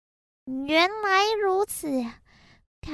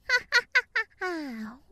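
demon laugh. Acted. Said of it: "可怕的恶魔来到了人界".

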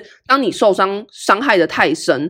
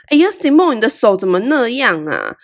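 disdainful tone; 3 semitones higher than usual. Retold or imitated. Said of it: "她就用很嫌弃的口吻对我说".

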